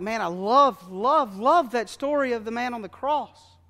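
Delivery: loud, slow and swelling with joy; rapturous, drawn-out love love love; gushing delight. Acted. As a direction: lean hard into each love. Visitor gushing about the story.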